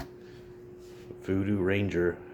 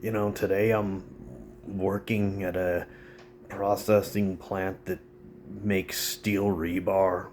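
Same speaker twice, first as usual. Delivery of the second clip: working class buddy; 2 semitones higher than usual. Retold or imitated. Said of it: "sitting there with their buddies like".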